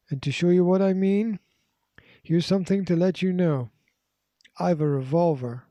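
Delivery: a hint of a man brandishing a revolver; threatening man.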